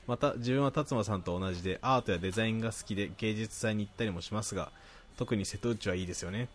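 even, articulate read-aloud; reading listener mail. Acted. Host reading a listener's praise to co-host, reading aloud. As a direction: read the letter out neatly.

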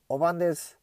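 Sendai dialect greeting, lightly voiced. Shown as a demonstration. Podcaster greeting listeners in Sendai dialect, lightly voiced. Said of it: "仙台弁で言うと".

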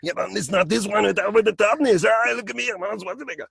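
high, tough Austrian strongman voice; Arnold Schwarzenegger. Shown as a demonstration. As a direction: puff up a tough Arnold boast. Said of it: "you have to do his exact voice".

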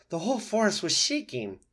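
high, loud fox voice; excited fox. Acted.

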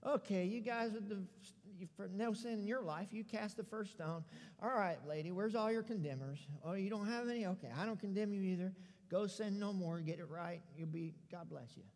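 soft, offhand dismissal; blowing it off. Acted. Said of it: "he pretty well blows it off".

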